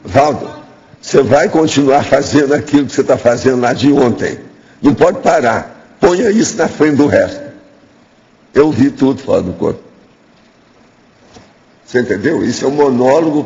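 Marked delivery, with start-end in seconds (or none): 0.0-7.4 slightly raised, firm quoted command; lightly acted spirit guide laying down orders; guiding consciousness giving orders. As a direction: voice an insistent mentor's instructions, mildly acted. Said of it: "fala assim".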